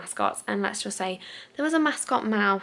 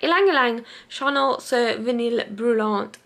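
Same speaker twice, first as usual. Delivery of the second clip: put-on French accent; 3 dB louder than usual. Vlogger reading a perfume description aloud, best French accent. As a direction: have a slightly shaky go at French pronunciation. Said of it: "That's my best French accent".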